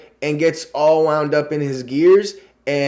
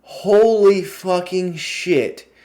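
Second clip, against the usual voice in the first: slow, drawn-out disbelief; amazed exclamation; 4 semitones higher, much slower than usual. Real, not acted. Vlogger gushing about Paul Bettany, slow and amazed. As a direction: stretch it out in awe.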